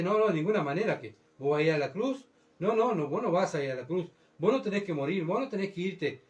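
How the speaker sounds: lightly voiced disciple insisting no, no; pleading Peter. Peter pleads with the Lord not to go to the cross, urgent mock protest.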